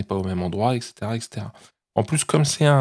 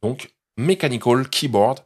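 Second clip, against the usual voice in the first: a Frenchman's careful attempt at an English accent on Mechanical Keyboard; mild self-conscious English accent; trying English accent. Shown as a demonstration. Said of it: "je travaille mon accent anglais".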